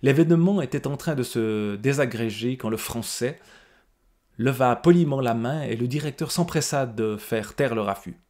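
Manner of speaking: lit l'extrait avec soin, en narrateur; lecture de roman. A narrator's reading. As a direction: raconte la scène posément au spectateur. Lecture d'un extrait de roman. (lecture à voix haute d'un roman)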